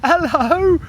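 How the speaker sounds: very high, loud mock Scandinavian hello; imitated local accent. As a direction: chirp it in a put-on Scandinavian accent. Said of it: "I love the bloody accent".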